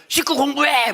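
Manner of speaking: high, loud yelled command; shouted order. Retold or imitated. Mother yelling at child home from school. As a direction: bark it at the exhausted kid. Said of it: "뭐 이런 소리".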